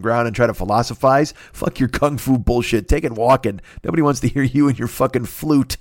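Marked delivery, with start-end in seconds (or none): none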